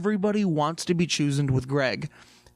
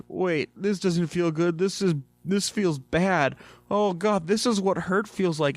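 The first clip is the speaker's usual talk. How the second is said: mock dismay; 4 semitones higher than usual. Utopian discovering heartbreak.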